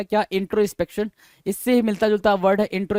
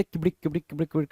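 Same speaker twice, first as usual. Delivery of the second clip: quick, soft clip-clop gallop noise; mock hoofbeats, rapid and repetitive; imitated horse gallop; 3 semitones lower, 6 dB quieter, much faster than usual. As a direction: patter out a galloping sound, fast and low. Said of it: "पकड़ के ऐसे".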